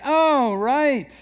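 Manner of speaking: the penny drops; sudden realization. Retold or imitated. Husband reminded of the laundry, caught out.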